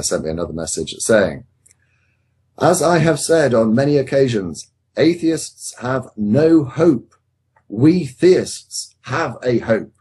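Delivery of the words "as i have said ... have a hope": emphatic declaration. Retold or imitated. Host reads out Andy's message about atheists having no hope, emphatically declaiming. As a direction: read it out as a slow, emphatic proclamation. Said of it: "Exclamation mark".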